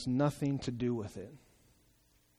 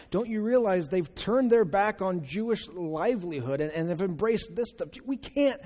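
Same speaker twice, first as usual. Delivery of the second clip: protesting, rising indignation; indignant Pharisee; 3 semitones higher than usual. Pretend. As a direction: Pharisees scolding Jesus for his company, indignant.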